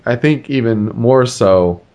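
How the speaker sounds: hiccuping while talking; with hiccups. Real, not acted. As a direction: talk through the hiccups. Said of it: "hiccuping and all".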